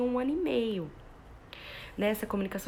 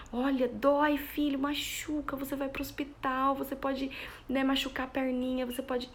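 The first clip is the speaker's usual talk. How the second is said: mock alarm for the child; 4 semitones higher than usual. Shown as a demonstration. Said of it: "vou demonstrando na expressão".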